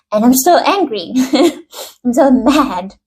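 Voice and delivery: light, playful pretend anger breaking into a laugh; half-serious angry kid with a giggle; mock angry child. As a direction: act a child's mild tantrum, laughing midway. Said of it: "something angered the child".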